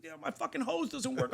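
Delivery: high squealing mock gratitude; hammed-up elation in a very high voice; overjoyed. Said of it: "is so fucking happy".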